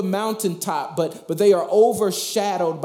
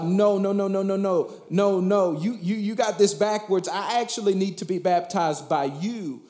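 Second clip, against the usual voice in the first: protesting; 4 semitones higher than usual. Acted. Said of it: "And, and John is like".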